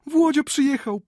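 very high, loud squeal; excited squeal. Acted. Natalia running into the dining room, high excited squeal. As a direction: squeal it out with delight. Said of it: "pisnęła Natalia".

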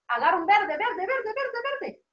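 rising singsong prompt, ending high and lighter; playful urging. Real, not acted. Hurrying children to grab green.

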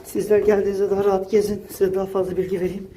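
breathless after climbing stairs; panting between words while walking fast; out of breath. Real, not acted. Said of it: "biraz nefes nefeseyim".

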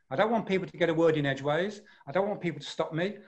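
fast, direct, hardly a break; pressing red voice. Shown as a demonstration. Coach showing how to push a meeting to action, pressing. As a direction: press on so nobody can interrupt. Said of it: "a very pressing tone, with very few breaks".

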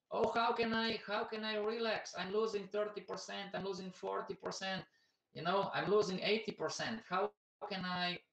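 high, mock panicked wail; imitating panicked investor. Friend on the phone, mock panicked wail over losses. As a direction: play the frightened friend losing everything. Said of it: "they're, like, sobbing".

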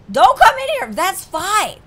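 high, loud furious warning; angry yell. Acted. Uncle yelling at the officer not to enter, furious. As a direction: bark the threat to keep him out. Hostage taker threatening officer.

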